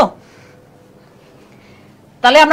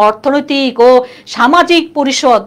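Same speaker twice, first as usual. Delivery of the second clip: slow, stretched-out syllables; laboured long name; slower than usual. Shown as a demonstration. Teacher showing why the full name is tiresome, laboured. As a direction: drag out the long title as a mouthful. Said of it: "বলতে কষ্ট হয় না".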